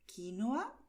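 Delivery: quinoa said ki-no-a; quinoa pronounced kinoa; first quinoa. Shown as a demonstration. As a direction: say quinoa in three syllables.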